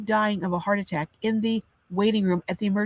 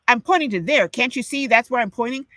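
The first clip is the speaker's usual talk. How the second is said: higher and louder, impatient and talking down; condescending doctor tone; 5 semitones higher, 3 dB louder than usual. Retold or imitated. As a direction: sneer it at a scared patient. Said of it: "That's the tone".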